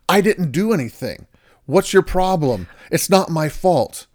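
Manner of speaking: husband snapping back at his hurt wife, defensive. Retold or imitated. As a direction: push back like you're being blamed. Defensive husband voiced in example.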